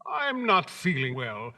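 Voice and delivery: with a smile. Acted. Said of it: "said the scarecrow with a smile".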